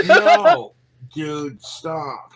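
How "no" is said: loud high laughing no; laughing shout. Real, not acted. Streamer laughing off his own scream. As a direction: burst out laughing.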